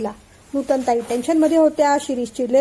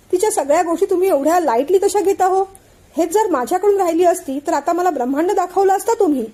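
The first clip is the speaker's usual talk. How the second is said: higher, aggrieved complaint; aggrieved protest; 5 semitones higher than usual. Acted. Shirish complains to his father about favouring Anandi, aggrieved and higher. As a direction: protest the unfairness.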